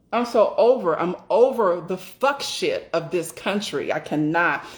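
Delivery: "over" and "cannot" leaned on with emphasis; fed-up weight on "over" and "I cannot"; emphatic. Real, not acted. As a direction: stress "over" and "fuck shit", then a firm "cannot". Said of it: "I say that with such emphasis".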